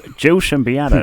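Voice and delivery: imitating a New York PI. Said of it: "a P I in, like, a black and white film".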